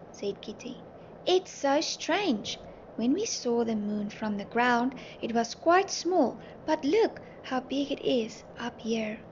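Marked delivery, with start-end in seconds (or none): 1.3-9.2 excited yell. Acted. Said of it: "Dolly yelled excitedly".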